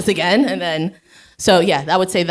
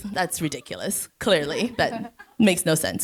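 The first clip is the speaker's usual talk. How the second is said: calm dismissal; 5 dB quieter than usual. Acted. Answering her silly inner critic.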